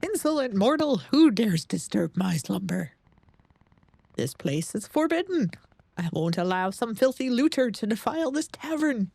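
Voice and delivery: a wrathful ancient guardian scolding an intruder; grinding stone statue. Acted. Angry tavern guardian wakes.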